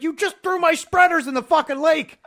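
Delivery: high, loud exasperated yell; exasperated friend. Retold or imitated. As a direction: yell it in disbelief at your buddy. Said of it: "He's like".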